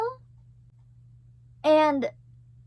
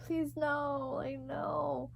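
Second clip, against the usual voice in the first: crying plea; 2 semitones higher, 11 dB quieter, much slower than usual. Retold or imitated.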